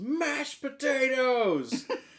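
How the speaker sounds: put-on sudden shout, very high, shrill, loud. Retelling a golf spectator's shout from a video: imitating a spectator yelling. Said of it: "someone in the audience just yells".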